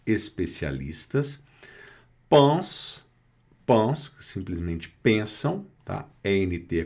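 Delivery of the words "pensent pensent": "pensent" with the final NT dropped; silent NT in "pensent". Shown as a demonstration. Teacher modelling a French verb ending, silent NT in "pensent". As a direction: say "pensent" without sounding its NT ending. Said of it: "não é pronunciado".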